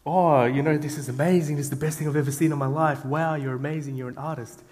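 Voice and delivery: imitating a gushing fan, half-joking; mock gushing praise. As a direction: gush like a fan who is hamming it up. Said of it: "She was expecting you to say".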